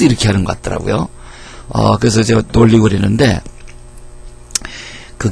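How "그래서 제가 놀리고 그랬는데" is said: ordinary talk, nothing marked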